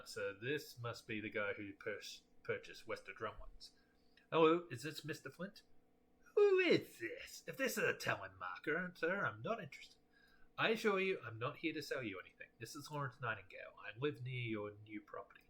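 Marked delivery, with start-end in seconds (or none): 6.3-10.0 put-on suspicious old homeowner. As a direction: snap at the caller. Gruff homeowner answers the phone.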